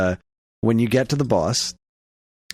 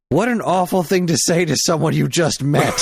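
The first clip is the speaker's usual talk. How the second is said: higher, louder, laughing offense; mock offended; 5 semitones higher, 4 dB louder than usual. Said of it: "And he responds".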